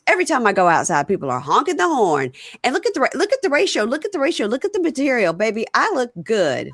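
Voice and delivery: hammed-up retelling of a vain boast; imitating a preening woman. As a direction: show off like she owns the room. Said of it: "she stands up and she goes".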